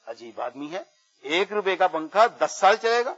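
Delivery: put-on mildly incredulous old woman's query; retold disbelieving question. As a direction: echo the claim, rising at the end. Old woman wonders at the claim. (بڑھیا کا ہلکی حیرت بھرا سوال)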